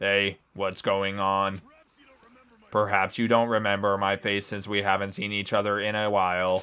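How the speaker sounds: put-on robotic voice. Voicing a game character the player suspects is a robot, robot voice. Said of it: "I gotta do a robot voice".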